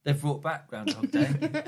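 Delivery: slow, laughing repeat of the joke; deadpan repeat with a laugh; teasing repeat. Real, not acted. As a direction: say it again slowly, grinning at the joke. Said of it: "is this a joke because Groundhog Day".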